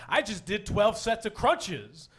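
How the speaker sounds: slow, drawn-out mock boast; mock bragging. Comedian imitates his brother boasting about crunches, mock bragging. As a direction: imitate a brother showing off, stretching it out. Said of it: "he's all bragging".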